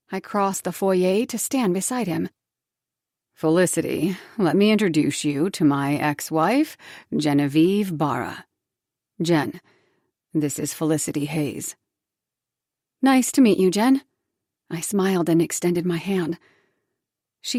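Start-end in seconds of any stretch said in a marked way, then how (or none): 3.3-11.7 a hint of a lower male voice; lightly voiced man. Cooper introducing fiancée to ex-wife, lightly lower voice. 13.0-14.0 louder, eager hello; bright greeting. Acted. Narrator greeting ex-wife, eager and louder.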